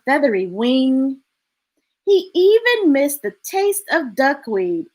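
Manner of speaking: put-on measured reading to children; story narration. A narrator's reading. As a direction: tell the story gently, phrase by phrase. Reads picture book aloud.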